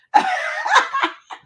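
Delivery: high-pitched burst of laughter. Real, not acted. Host joking about fussing at co-host, laughing high. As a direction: giggle high and freely.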